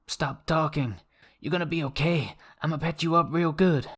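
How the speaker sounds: high frantic reassurance; urgent comforting medic voice; hammy death scene. Acted. Medic reassuring dying friend.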